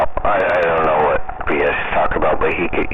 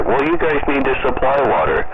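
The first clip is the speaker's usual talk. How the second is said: whiny worker imitation; 8 semitones higher than usual. Worker's demand mimicked.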